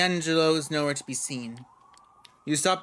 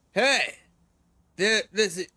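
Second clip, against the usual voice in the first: put-on a mild Brooklyn accent, shouted higher; Brooklyn cop yell; 3 semitones higher than usual. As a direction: bark it like a Brooklyn cop, half-hearted. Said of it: "yells in a thick Brooklyn accent".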